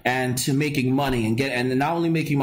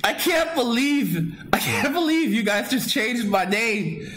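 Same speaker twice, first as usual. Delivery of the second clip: higher, half-joking tearful disbelief; choked up; 8 semitones higher than usual. Real, not acted. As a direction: sound close to tears over the new name. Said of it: "I feel like tearing up".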